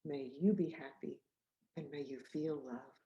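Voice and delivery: soft, tender, fading wishes; quiet heartfelt blessing; sincere blessing. Real, not acted. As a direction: bless the listener gently. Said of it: "I say this to you".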